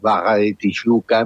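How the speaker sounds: "barra" with the double R said like a Spanish J; R como J. Shown as a demonstration. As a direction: Brazilian "barra", a little like a French R. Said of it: "la R se pronuncia como una J". ("barra" con la erre como jota, a la brasileña)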